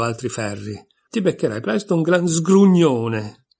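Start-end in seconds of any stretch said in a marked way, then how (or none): 1.1-3.5 sheep warning. A narrator's reading.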